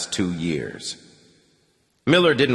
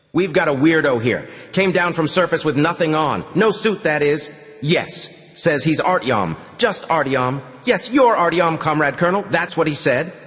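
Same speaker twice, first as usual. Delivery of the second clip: lightly voiced gruff sentry, higher; a hint of a grumbling guard; sentry on the phone; 6 semitones higher than usual.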